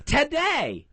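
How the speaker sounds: "Today" pitched high, then falling; pointed emphasis. Real, not acted. Co-host reading the email as proof, pointed stress on "Today".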